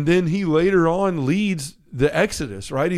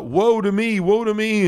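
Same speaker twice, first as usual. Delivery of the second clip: lamenting woe; 6 semitones higher than usual. Retold or imitated. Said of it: "he's crying about and lamenting about it".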